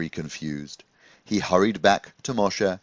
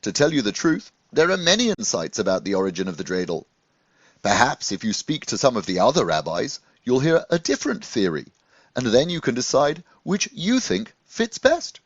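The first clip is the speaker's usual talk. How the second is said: a hint of a kindly old rabbi; gently voiced rabbi recalling hard times; lightly voiced rabbi; 4 semitones higher than usual. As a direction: explain it like a patient teacher. Rabbi Cohen advises Jaffa.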